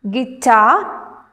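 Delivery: "guitar" with the weight on TAR; stress on second syllable. Shown as a demonstration. Teacher reading words to students, "guitar" stressed on TAR. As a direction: say "guitar" as gui-TAR, rising at the end. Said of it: "stress on the second syllable".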